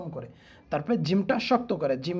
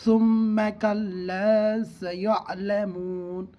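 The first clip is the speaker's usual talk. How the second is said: Quran recitation; much slower than usual. Shown as a demonstration. Teacher models the verse reading for students. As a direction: chant it slowly like tilawat. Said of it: "এইভাবে".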